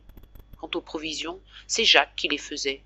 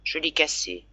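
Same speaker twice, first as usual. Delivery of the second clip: faint, pitiful voice; 4 dB quieter than usual. Acted. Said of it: "d'une voix navrante et faible".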